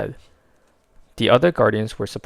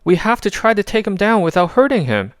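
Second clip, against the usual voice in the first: higher, louder commands; urgent orders; 11 semitones higher, 7 dB louder than usual. A narrator's reading. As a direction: order the team firmly.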